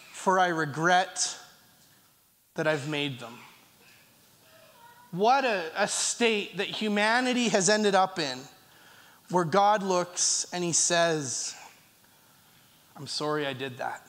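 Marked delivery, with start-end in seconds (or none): 0.1-3.4 sorrowful God. Acted. God's regret voiced in sermon. 13.0-14.0 much lower and softer, grieving; sorrowful God. Acted. Preacher voicing God's sorrow, soft and low.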